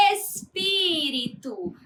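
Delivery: "espírito" slowly, with PÍ held out; stress on PÍ. Shown as a demonstration. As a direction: stretch the second syllable of "espírito". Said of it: "o pi é a sílaba mais forte". ("espírito" devagar, destacando o PÍ)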